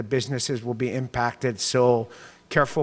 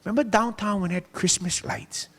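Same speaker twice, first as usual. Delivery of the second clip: nostalgic reminder; 9 semitones higher than usual. Retold or imitated. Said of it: "I said".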